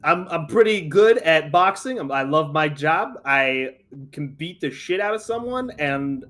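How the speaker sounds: a loud New York Italian-American boxer; Italian-American accent. Acted. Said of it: "I'm not gonna do the accent for the introduction".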